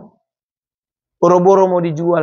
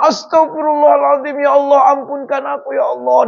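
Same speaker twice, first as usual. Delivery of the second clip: remorseful prayer; 6 semitones higher than usual. Retold or imitated. Husband repenting on hearing news.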